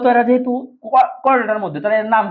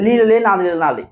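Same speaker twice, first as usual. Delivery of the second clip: Rajshahi dialect. Shown as a demonstration. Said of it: "রাজশাহীর একটা চমৎকার ভাষা আছে".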